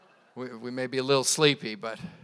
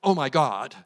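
casual exclamation; 5 dB louder than usual. Retold or imitated. Pastor imitating how the culture talks, casual exclamation. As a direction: toss it off without reverence. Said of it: "that's what our culture does".

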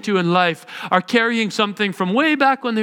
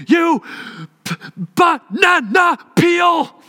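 put-on angry kid yell; 8 semitones higher, much slower than usual. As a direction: shout it like a furious little boy stomping off. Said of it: "and he'll say".

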